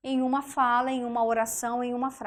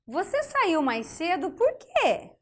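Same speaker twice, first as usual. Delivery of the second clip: slow example read; 4 semitones higher than usual. Shown as a demonstration. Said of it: "Olha só".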